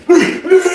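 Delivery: high-pitched mimicked noise; mock high "mm" of his cellmate; imitated grunt. Imitates Billy Bob's odd noise.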